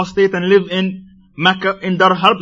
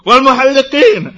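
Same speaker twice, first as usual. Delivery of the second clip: loud, higher call of "Wal muhalliqin"; screamed plea; 7 semitones higher, 7 dB louder than usual. Acted. A man shouting to the Prophet a third time, loud. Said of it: "the man screamed out a third time".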